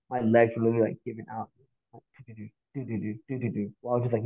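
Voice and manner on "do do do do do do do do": very soft, low run of little syllables; imitated wobbly-leg noise. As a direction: mimic giving-out legs under the breath. Imitates legs giving out climbing.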